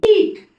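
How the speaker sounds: ईट said high and loud as a long ee: eet; ईट rung out like a teacher modelling eet; model word. Shown as a demonstration. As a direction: announce ईट with a long stretched ee. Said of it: "इसका pronunciation ईट हो रहा है".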